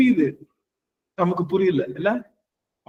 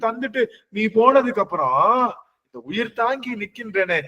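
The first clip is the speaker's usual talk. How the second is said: impassioned lament; 4 semitones higher than usual. Acted. Acting the saint's lament to Shiva.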